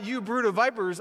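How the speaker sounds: "You brood of vipers" thrown out loud and high; preacher's yell. Shown as a demonstration. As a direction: hurl "You brood of vipers" at the congregation like an accusation. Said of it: "if I yelled that at y'all".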